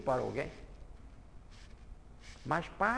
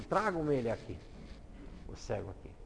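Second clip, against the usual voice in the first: gentle command; 5 semitones lower, 6 dB quieter than usual. Acted.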